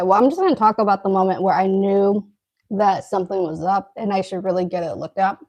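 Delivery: talking with a mouthful of food; eating while talking, mouth full. Real, not acted. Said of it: "I'm trying not to talk with my mouth open".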